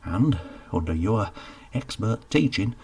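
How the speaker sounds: Geoffrey talking the baker into hiring him, with relish. Acted. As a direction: sell the dream, savouring it. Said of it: "commending it with relish".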